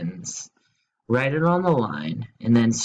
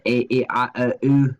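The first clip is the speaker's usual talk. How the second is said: put-on Scottish accent; 3 dB louder than usual. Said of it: "Or as the Scottish say".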